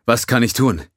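a burly alien, worried; gruff Tellerite. Acted.

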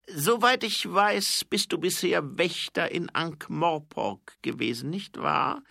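high, loud, measured king's voice; herrischer Zwergenkönig. A narrator's reading. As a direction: speak down to an envoy, high and forceful. (hoher, lauter Zwergenkönig, bedächtig)

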